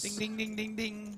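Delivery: high sing-song bell call; playful high bell chime; gleeful ding ding. Real, not acted. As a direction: ring it out like a jackpot bell. Flush hits on the turn.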